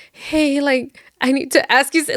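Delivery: imitated breathy, halting phone voice, pitched a little up. Carl calls Rick while getting intimate, breathy. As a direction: mimic someone out of breath asking a favor. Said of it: "he was, like, breathy, like, breathy".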